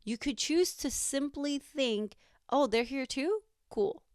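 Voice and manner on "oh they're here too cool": higher-pitched, breezy mock reaction; acted nonchalance. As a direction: act like their presence is no big deal. Acting out a nonchalant thought.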